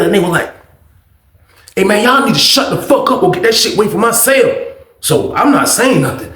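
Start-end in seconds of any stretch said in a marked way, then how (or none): 1.8-4.5 annoyed complaint. Acted. Woken neighbour complains about noise.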